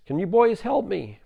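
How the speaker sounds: loud, high plea; calling up for help. Acted. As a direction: call up to someone far above. Man calls up the cliff.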